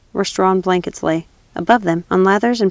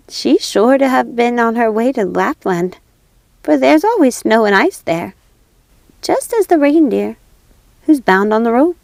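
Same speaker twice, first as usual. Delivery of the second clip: pigeon voice; 4 semitones higher than usual. Acted. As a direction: lilt it like a pigeon.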